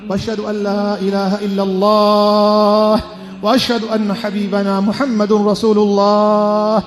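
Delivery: slow, sonorous khutbah intoning; liturgical recitation. Real, not acted. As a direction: intone it slowly, stretching the long vowels like a chant. Formal Arabic opening and prayers of khutbah.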